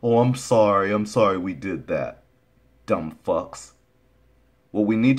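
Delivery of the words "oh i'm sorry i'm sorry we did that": mock apology. Mimicking those who apologize a week later, mock-apologetic. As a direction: imitate a hollow apology.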